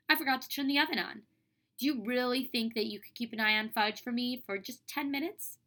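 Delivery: expressive classroom reading; story read-aloud. Acted. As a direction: read it lively, acting out each character.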